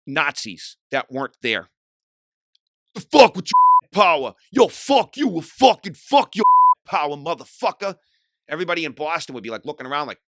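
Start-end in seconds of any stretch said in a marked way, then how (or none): 2.9-8.0 slow, much higher and louder mock rant; imitated scream. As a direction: ham up a singer screaming at imaginary Nazis. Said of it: "he would always scream".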